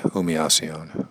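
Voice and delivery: "Humillación" with silent H and a Y sound; L's like a Y. Shown as a demonstration. Teacher showing learners the Spanish word, L's like a Y. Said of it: "the L's sound more like a Y".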